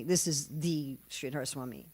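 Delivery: "the" set apart and emphasised, meaning the one and only; stress on THE. Real, not acted. Teacher telling the famous swami from namesakes, stressing "the". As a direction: lean on "the" before Sridhar Swami.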